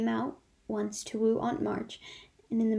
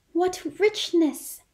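high, slow sighing "What richness!"; awed sigh; 8 semitones higher, 6 dB louder, much slower than usual. Acted. Jo sinking into the velvet chair, slow awed sigh. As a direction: breathe it out in wonder. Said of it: "sighed Jo".

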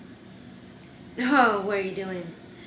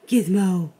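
excited call. Real, not acted. Gasps, calls dog again.

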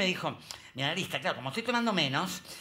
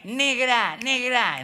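calling out; 5 semitones higher, 7 dB louder, much slower than usual. Retold or imitated. Calling women to come.

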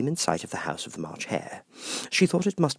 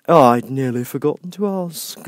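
grinning Cheshire Cat; 6 semitones higher, 7 dB louder than usual. Acted. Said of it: "said the cat".

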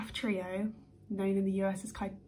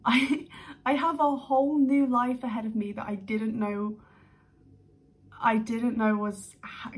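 loud, breathless with real excitement; overwhelmed with real joy; excited; 4 dB louder than usual. Real, not acted. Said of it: "I'm excited".

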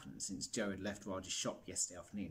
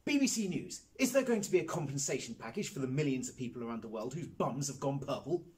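shouting reporter; 3 semitones higher than usual. Acted. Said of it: "shout questions at him".

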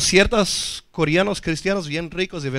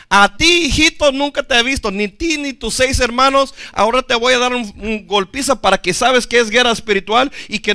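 hint of a threatening demon, raised pitch; lightly voiced demon; 4 semitones higher, 3 dB louder than usual. Demon taunting the sons of Sceva, lightly acted scolding. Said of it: "el demonio dijo así".

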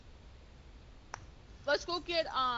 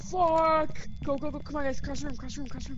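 panicked shouting; 3 semitones higher, 5 dB louder than usual. Real, not acted. Fleeing ghost, calling out.

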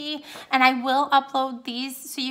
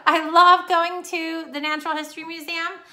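excited; 4 semitones higher, 6 dB louder than usual. Shown as a demonstration. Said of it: "That's what she said".

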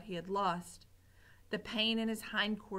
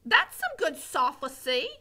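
simple Mig voice; 5 semitones higher, 6 dB louder than usual. Acted. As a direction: admire the big word dimly. Mig repeats cook.

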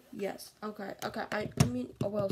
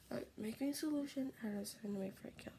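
whisper; 7 dB quieter, faster than usual. Real, not acted. Fast whispered aside.

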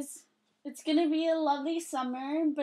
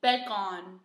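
put-on English accent; 6 semitones lower than usual. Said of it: "Say bacon with English accent".

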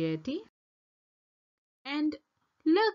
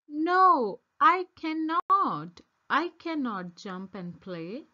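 firm refusal; 3 semitones higher, 3 dB louder than usual. Acted. Minnie refusing to play.

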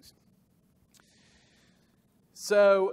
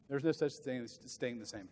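"no" stressed, softer and lower; quiet repeat; 5 semitones lower, 8 dB quieter than usual. Shown as a demonstration. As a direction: drop the voice and let "no" land. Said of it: "repeated softer".

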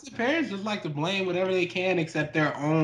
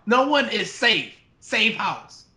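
slightly raised tagline delivery; horror trailer voice; 4 semitones higher than usual. Retold or imitated. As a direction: quote the poster slogan. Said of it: "They didn't say".

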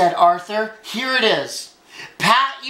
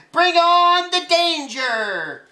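high, long-held superhero cry; ringing call that falls at the end; heroic challenge; 9 semitones higher, slower than usual. Acted. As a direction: stretch it out slowly with bravado. Arthur playing superhero, calling out challenge.

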